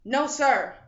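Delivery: anxious reply. A narrator's reading. Frightened boy answering louder.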